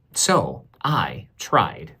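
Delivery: slow hushed admission; slow whispered confession. Acted. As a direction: breathe it out slowly. Child narrator's small admission.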